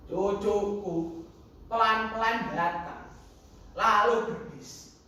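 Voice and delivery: drawn-out theatrical recital; dramatic story narration. Acted. Grandfather recalls an independence anniversary, dramatic narration. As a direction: narrate slowly, savouring each phrase.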